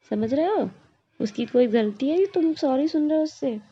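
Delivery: loud, fast, heated telling-off; scolding rebuke. Acted. Sister-in-law rebukes Krishna for making the child apologise, loud and heated. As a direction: tear into him for demanding an apology.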